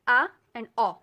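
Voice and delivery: आ and औ drawn out slowly, loud; धीरे से आ और औ; thin and heavy vowels. Shown as a demonstration. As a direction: stretch out आ then औ to show the difference. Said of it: "आ की sound आती है ... औ की साउंड".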